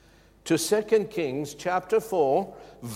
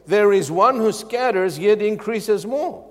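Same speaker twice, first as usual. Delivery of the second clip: louder, higher proclaiming of the verse; emphatic proclamation; 5 semitones higher, 6 dB louder than usual. Shown as a demonstration. Preacher proclaiming the verse loudly to the church. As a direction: proclaim it with force. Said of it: "But the Word of God says".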